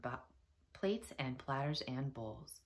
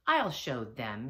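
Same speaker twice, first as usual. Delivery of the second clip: angry; 3 semitones lower, 6 dB louder, slower than usual. Acted. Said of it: "Big Anthony was angry".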